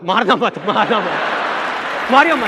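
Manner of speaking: rising, loud alarmed calls; bystander shouting. Retold or imitated. Bystander yelling at brawlers not to hit, rising shout.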